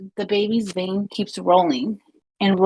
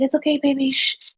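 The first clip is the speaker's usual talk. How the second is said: mock baby soothing; 5 semitones higher, faster than usual. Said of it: "rocking the baby".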